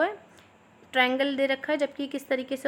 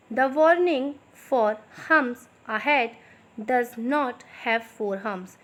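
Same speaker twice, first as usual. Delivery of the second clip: slow, clear dictation pace for students to write; much slower than usual. Shown as a demonstration. Teacher dictating slowly to her students. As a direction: spell it out slowly so they can copy. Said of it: "थोड़ा मैं slow slow बोलूँगी".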